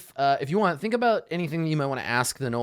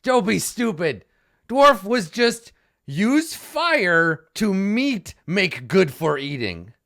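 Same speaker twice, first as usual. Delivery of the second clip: slow, higher broken-English gnoll; gnoll Puzzle explaining; 5 semitones higher, 5 dB louder, slower than usual. Acted. Puzzle scolds the other gnoll about cooking, slow and higher. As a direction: lecture the other gnoll slowly. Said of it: "And he says".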